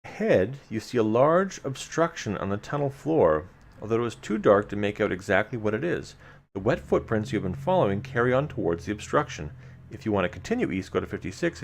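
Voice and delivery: measured gamebook reading to the listeners; story narration. A narrator's reading. Host reading gamebook text to listeners, storyteller narration. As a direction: read the dungeon text like a storyteller. Reads gamebook passage aloud.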